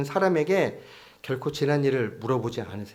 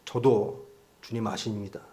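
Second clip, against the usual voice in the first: mock voice-actor delivery; 3 semitones lower, 4 dB quieter than usual. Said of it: "이렇게 성우처럼 얘기했겠어요".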